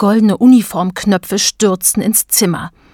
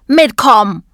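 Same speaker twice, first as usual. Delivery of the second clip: high, loud cartoon bellow; bellowing button policeman; 6 semitones higher, 5 dB louder, slower than usual. A narrator's reading. Button policeman orders Emma along, bellowing high. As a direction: bark orders in a high, stretched voice. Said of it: "brüllte der Polizist".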